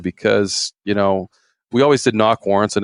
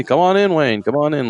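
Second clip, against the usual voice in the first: much higher, overly chummy invite; buddy-buddy welcome; 7 semitones higher than usual. Retold or imitated. Poacher inviting the warden inside, mock-friendly and chummy. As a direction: play the suspect's fake-friendly welcome. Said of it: "like we're best buds".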